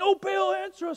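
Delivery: shouting, pitched way up very high. Retelling the Elijah story, voicing the prophets of Baal, acting out prophets shouting. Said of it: "they're shouting".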